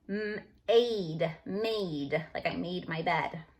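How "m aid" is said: m-aid split slowly; sounding out long A. Shown as a demonstration. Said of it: "mad now becomes".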